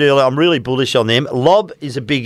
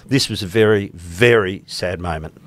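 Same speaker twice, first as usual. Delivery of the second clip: serious; 5 semitones lower than usual. Acted. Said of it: "to be serious here for a moment".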